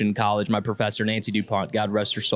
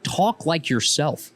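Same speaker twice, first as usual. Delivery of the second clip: ordinary delivery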